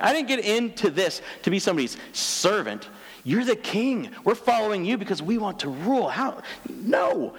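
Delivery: high, insistent complaint; indignant protest. Retold or imitated. Disciples refusing to be somebody's servant, indignant.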